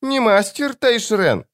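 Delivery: put-on high, drawn-out childlike question; eerie child voice. A narrator's reading. Demon puzzled to meet someone else, eerie child voice. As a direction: question him slowly in a demon's little-child voice. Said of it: "голосом ребёнка".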